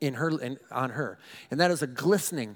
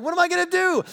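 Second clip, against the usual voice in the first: much higher, panicked question; panicked inner cry; 13 semitones higher, 5 dB louder, faster than usual. Retold or imitated. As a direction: squeak it out in mock panic. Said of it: "I'm like".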